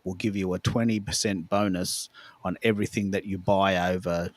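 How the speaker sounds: put-on low, measured tone of a Scottish star, without the accent; Sean Connery. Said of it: "I'll just do the tune, the sort of the tone".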